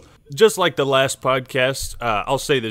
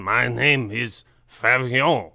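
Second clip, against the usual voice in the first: dramatic intro; slower than usual. Pretend. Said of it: "we entered an Ackman video there".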